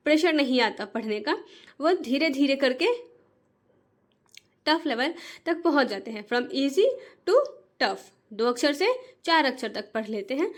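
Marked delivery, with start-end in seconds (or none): 6.3-8.1 slow stretched phrase. Shown as a demonstration. Teacher stresses progression.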